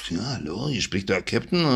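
murmured, unclear captain's intercom voice; mumbled pilot announcement. Retold or imitated. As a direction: mumble it like a crackly cockpit speaker. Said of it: "so ein Gerauschel und dann so ein Gemurmel". (genuschelte Pilotendurchsage)

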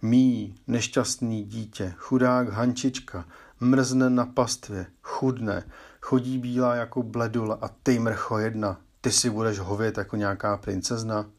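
lightly voiced angry stepmother; stepmother scolding. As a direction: berate the girl, dragging the words. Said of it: "potom se dala do Barušky".

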